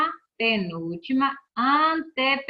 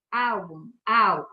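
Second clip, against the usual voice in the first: "álbum", then its first syllable "al" alone; single out the stressed "al" of "álbum"; stressed syllable shown; 3 semitones lower, much slower than usual. Shown as a demonstration. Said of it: "é a sílaba tônica".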